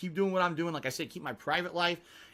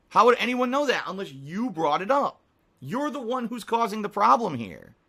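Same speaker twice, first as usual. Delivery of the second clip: raised, accusing voice; angry; 4 semitones higher, 5 dB louder than usual. Real, not acted. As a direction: call the troll out directly. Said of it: "'cause I'm getting angry".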